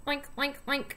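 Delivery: oinking like a pig; playful pig oinks. Shown as a demonstration. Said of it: "What do they say?".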